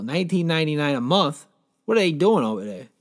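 rising, tempted double-take at the price; impressed question. Real, not acted. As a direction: repeat the price as if considering buying. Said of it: "I might hit up this deal".

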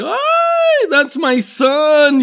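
put-on high, loud shout of a mother finding her kid; mother spotting her lost son across the store, shouting; mom shouting. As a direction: belt it out like a frantic mom. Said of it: "came and she was like".

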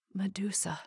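whispered whimper of fear. A narrator's reading. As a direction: breathe her name in terror. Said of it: "he whimpered".

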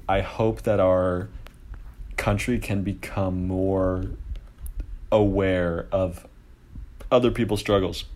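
talking through burps; holding back a burp. Real, not acted. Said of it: "Sorry, I'm burping right now".

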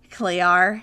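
put-on Australian accent with the R dropped. Imitating her Australian ex calling his cat, Australian accent. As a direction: say "Clear" the Australian way, as "Clee-ah" with no R. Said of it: "great Australian accent".

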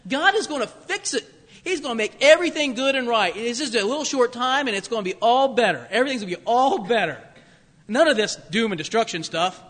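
high, loud, breezy false prophet; smug false prophet. Retold or imitated. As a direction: sell the feel-good sermon brightly. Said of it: "Hananiah says".

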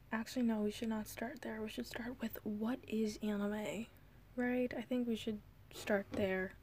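soft unvoiced whisper. Real, not acted. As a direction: drop to a hush, almost ASMR. Drifts into whispering, ASMR joke.

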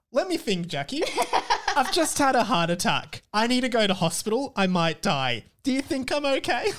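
high, laughing sarcastic reply; mock the worried friend; sarcastic while laughing. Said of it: "sarcastic persona".

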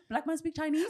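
high, laughing, amazed; shocked waitress. Retold or imitated. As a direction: mimic her disbelief, laughing. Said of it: "literally she goes".

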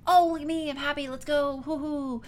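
high-pitched, hammed-up peppy cheer; mock an overeager, relentlessly happy cartoon optimist; Joy. Imitating an emotion trying to distract a sad friend, high and over-cheerful. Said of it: "Whereas Joy's like".

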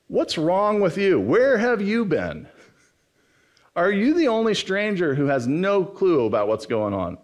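high, emphatic mock scolding; exasperated disbelief. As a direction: act out being appalled by someone's ignorance. Acted scolding of clueless stranger.

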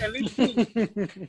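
very slow, stress on two; slow emphatic. Real, not acted. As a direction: drag out "At least two" with weight on two. Insisting on needing two wheels.

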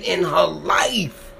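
breaking into a whispered sob; words barely getting out through tears; real tearful whisper; choked up. Real, not acted. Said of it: "I get so emotional".

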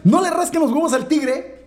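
high laughing proclamation; laughing shout. Real, not acted. Repeats moral laughing, shouting.

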